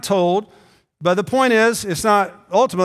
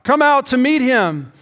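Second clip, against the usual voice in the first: calling out; 5 semitones higher than usual. Retold or imitated. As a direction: call it out across the house. Midnight cry announcing bridegroom.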